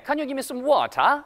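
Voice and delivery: lilting British English question; British accent. Shown as a demonstration. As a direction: ask like a Brit, "water" with a crisp t and no r. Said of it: "이렇게 들려요".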